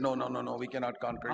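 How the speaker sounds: low, fast, soft protest; cowed refusal. Acted. Trembling Israelites answering Goliath, cowed refusal. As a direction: back down meekly in a quick low murmur. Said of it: "Israelites were trembling before him".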